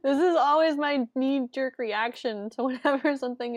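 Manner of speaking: talking through laughter; laughing. Real, not acted. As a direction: giggle between the words. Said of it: "I can't stop laughing".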